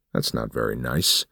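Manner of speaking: patronize him calmly; smug old man. Acted.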